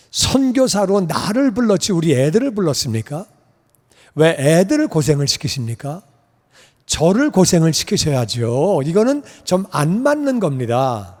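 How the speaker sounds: mildly aggrieved protest to God; retold complaining prayer. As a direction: argue with God, half pleading. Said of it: "컴플레인인지 깡짜를 부리는 건지". (하나님께 따지듯 투정하며)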